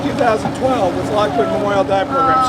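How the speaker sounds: hoarse, worn-out voice; strained, fading voice; losing voice. Real, not acted. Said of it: "Sorry, I'm losing my voice".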